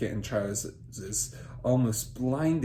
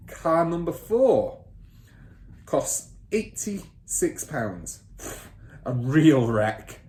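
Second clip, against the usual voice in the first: bossy father; 3 semitones higher, 4 dB louder, slower than usual. Acted. Father ordering son to take down figures, bossy. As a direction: snap the order at the boy.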